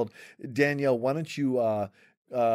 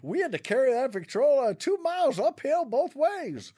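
put-on old timer; 12 semitones higher than usual. Old-timer complaint joke.

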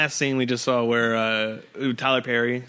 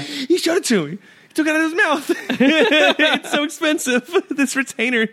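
squeaky mock voice; 13 semitones higher than usual.

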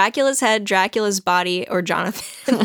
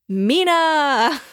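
raised, drawn-out calling of the name; farewell cry; 5 semitones higher than usual. Acted. Jonathan crying out to his fiance, hammed-up farewell. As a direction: call out Mina as a last goodbye.

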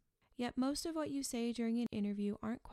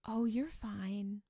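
unflappable reassurance; 4 dB louder, much slower than usual. Retold or imitated. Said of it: "the unflappable research expert".

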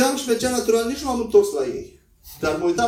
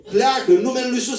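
mock commanding rebuke; 4 semitones higher than usual. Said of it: "știi cum le zburșim noi așa".

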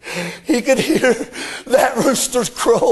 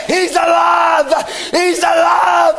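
joyful shout; 4 semitones higher than usual. Acted. Women cry out joyfully.

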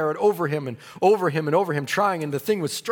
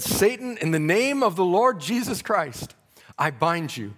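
commanding rebuke; 4 semitones higher than usual. Retold or imitated. Rebuking Satan in retold vision.

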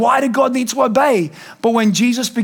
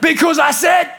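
stern dad; 6 semitones higher than usual. Retold or imitated. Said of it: "sometimes I'm like".

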